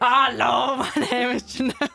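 badly faked German accent, amused. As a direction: fumble through a German introduction accent. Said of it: "the worst accent I've ever heard".

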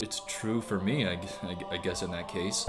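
small timid voice, trailing off; meek mumble. Retold or imitated. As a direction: mumble it shyly, stammering. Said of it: "So meek, so timid".

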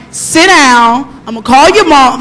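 firm, stern order. Shown as a demonstration. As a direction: lay down the law to the pupils. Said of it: "Like, I'm more stern".

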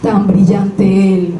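measured verse reading, pausing after each phrase; poetry recitation. Acted. Sharing a poem about a knife, measured recitation. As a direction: recite it line by line, evenly.

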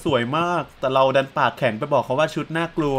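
lightly voiced diary confession; mock diary reading, lightly put on; pretend diary writer. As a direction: read out an imagined secret diary. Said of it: "เผื่อเป็นจดหมายไดอารี่ว่า".

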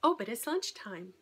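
mock wheedling craving; voice of the craving brain. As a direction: tempt yourself like your own hungry brain. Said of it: "my brain is saying".

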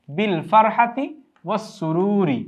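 "বিল ফারহাতি ওয়াস সুরুরি" drawn out slowly, word by word; slow demonstration. Shown as a demonstration. Teacher models the phrase for students, slowly. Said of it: "সেজন্য আমরা একসাথেই রেখেছি".

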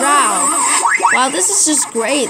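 mock praise after dying again; dry sarcasm; sarcastic. Real, not acted. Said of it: "Are you being sarcastic?".

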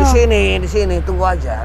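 insistent shout. Acted. Man forcing woman to spot.

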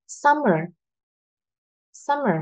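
"Summer" with high "Sum", falling "mer"; first-syllable stress. Shown as a demonstration. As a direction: hit "Sum" high, let "mer" drop lightly. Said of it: "là âm tiết thứ nhất".

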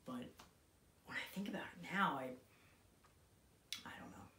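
intense, halting monologue with long pauses; dramatic monologue. Acted. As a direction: play it raw and hesitant, grieving son. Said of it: "bringing you another monologue".

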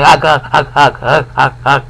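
mock choking grunts; short strained dying grunts; dying gasps. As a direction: imitate a man gasping for breath. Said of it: "he can't get his breath and he's dying".

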